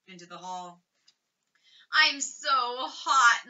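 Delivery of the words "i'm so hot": slow, drawn-out sick mumble; feverish mumble. Acted. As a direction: drag each word out like a feverish child. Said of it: "mumbled Keith".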